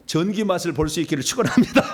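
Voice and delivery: real laugh breaking into a blessing; amused, laughing at own joke. Real, not acted. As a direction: bless them, then crack up. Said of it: "웃으면서 얘기를 합니다마는".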